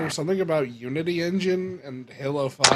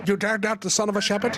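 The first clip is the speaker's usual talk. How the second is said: mock dramatic line; 7 semitones higher, faster than usual. Joking with friends, hammed-up epic delivery. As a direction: declaim it like a bad movie hero.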